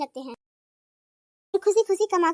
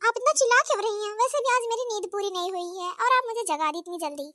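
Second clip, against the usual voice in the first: daughter-in-law; 4 semitones higher than usual. Acted.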